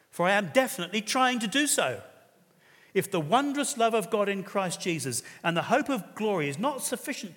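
fiery quoted preaching. Acted. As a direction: preach the Welsh preacher's threat with full force. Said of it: "I'm gonna read it to you anyway".

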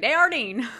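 Desjardins as day-ar-DEEN; Midwestern mispronunciation. Retold or imitated. Imitating Midwesterners saying it, Desjardins as day-ar-deen. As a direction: say Desjardins anglicized, ending in deen. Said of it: "They'd be like".

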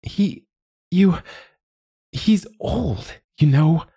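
high, giggling through the words. A narrator's reading. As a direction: choke back a giggle. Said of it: "choked on a giggle".

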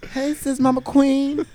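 very high, slow, drawn-out hail; playful retold greeting. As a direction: sing out to the aunt affectionately. Playful greeting to accepting aunt.

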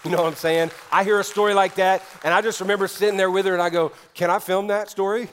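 high, loud burst of excitement; very excited. Real, not acted. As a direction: let the excitement push the voice up. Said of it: "creates some very big excitement".

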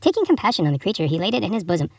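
storybook reading with lilting pitch; fable read aloud. Acted. Host reading an Aesop fable to listeners, storybook narration.

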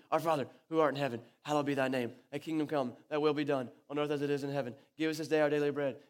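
mock team prayer rattled off; quick, run-together chant; hurried rote recitation. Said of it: "We say it as fast as we can".

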